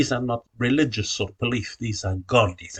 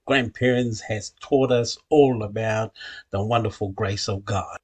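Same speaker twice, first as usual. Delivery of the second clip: prayer. Acted. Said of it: "I'm not here to preach".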